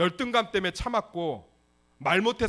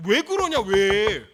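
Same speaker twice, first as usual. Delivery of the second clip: exasperated cry; 3 semitones higher, 10 dB louder, much slower than usual. Real, not acted. Preacher exclaims.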